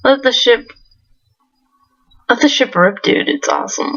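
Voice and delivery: hyped surfer bro; stoked surfer dude. Acted. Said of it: "this douchey surfer dude voice".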